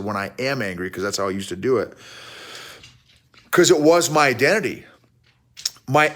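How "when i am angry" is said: "am" picked out, low and softer; stress on AM. Retold or imitated. Coach repeating his old wording to make the point, low, stress on "am". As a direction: repeat the quote lower, pressing on "am". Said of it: "I said".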